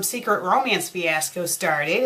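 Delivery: usual speaking voice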